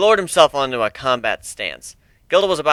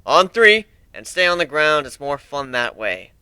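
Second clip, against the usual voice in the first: lazily. Acted. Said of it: "I said lazily".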